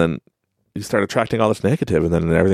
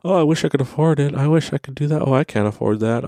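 mock whining; 6 semitones higher, faster than usual. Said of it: "how many times I hear that".

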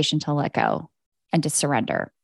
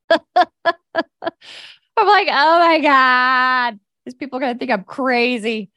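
high, laughing, drawn-out oh my God; laughing panic; 6 semitones higher, 4 dB louder, slower than usual. Real, not acted. Laughing at herself, fearing people think she's crazy, high and laughing. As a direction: laugh through the mock panic.

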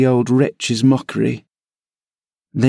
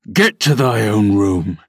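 low, furious growl of a command; furious, choked with passion; 5 semitones lower than usual. A narrator's reading. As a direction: spit it out, barely able to speak for rage. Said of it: "in a voice almost inarticulate with passion".

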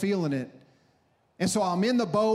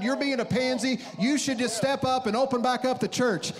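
higher-pitched, scolding church member; indignant caller; 4 semitones higher than usual. Retold or imitated. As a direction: mimic an outraged member lecturing the pastor. Acting out angry church members calling.

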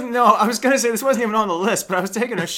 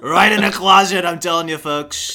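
Trump impression. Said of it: "My Trump impression gets worse".

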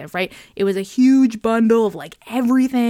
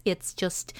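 goofy put-on voice; 8 dB quieter than usual. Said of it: "it's an accent when Sarah feels like being a little goofy".

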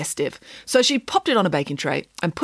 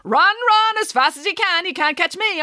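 taunting gingerbread man; 12 semitones higher than usual. A narrator's reading. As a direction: taunt him while running off. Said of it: "He called back to her".

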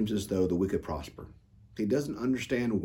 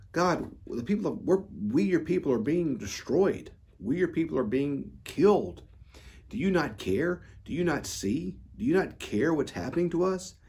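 pleading complaint; 6 semitones higher than usual. Acted. Voices the people's complaint to God.

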